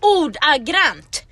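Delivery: "Ordagrant" stretched out slowly and loud; emphatic echo. Acted. Friend echoes her co-host, "Ordagrant" slow and loud.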